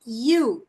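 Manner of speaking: "you" with i gliding into u; demonstrated "you", both sounds clear; long U, two sounds. Shown as a demonstration. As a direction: say "you" as the letter's name. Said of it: "dois sons de novo".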